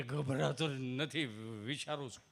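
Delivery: low, very slow timid villager. Retold or imitated. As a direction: drag it out shyly. Gabho repeats, slower. (ધીમો શરમાળ ગામઠી અવાજ)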